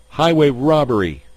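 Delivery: loud high outraged yell. Acted. Kippy yelling at Retief's demand, outraged. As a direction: howl it like you're robbed. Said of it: "Kippy yelled".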